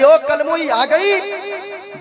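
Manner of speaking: long sneering drawl rising high on आ गई; mocking taunt. Mother-in-law sneers at bride coming home, drawn-out mocking taunt. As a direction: draw out the insult like a nagging mother-in-law.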